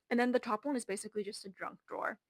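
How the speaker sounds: winded, breathing hard. Real, not acted. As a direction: talk while catching your breath. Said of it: "why am I so winded".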